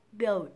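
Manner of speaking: "build" with dark L and released D; full build. Shown as a demonstration. Teacher adding final sound, "build" with crisp D. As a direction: finish "build" by popping the D after L. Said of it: "bật âm tr ở cuối".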